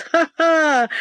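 short burst of crazed laughter; mad laughter. A narrator's reading. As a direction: laugh like a madman in the fire. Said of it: "он расхохотался".

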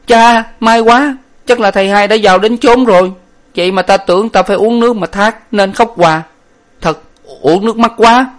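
a blubbering servant suddenly overjoyed; relieved servant. A narrator's reading. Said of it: "nên cả mừng và nói".

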